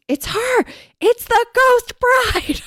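high-pitched hammed-up scream; very high, drawn-out screamed announcement. A narrator's reading. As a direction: shriek it in mock terror. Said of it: "Then Kelly screamed".

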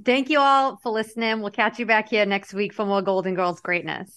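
thick hometown Massachusetts accent, r's dropped. Shown as a demonstration. Host signing off to listeners, Massachusetts accent. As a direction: read the sign-off in a Massachusetts accent. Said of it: "I'm gonna read it in my mass".

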